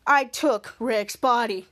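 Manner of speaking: low, slow robotic villain drone; slow low monotone computer virus; menacing virus voice. Acted. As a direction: drag each word out like a cold machine. Kid retells villain virus line.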